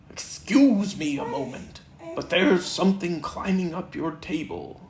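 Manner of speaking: lightly voiced bouncy Tigger; a hint of excited Tigger at the mirror.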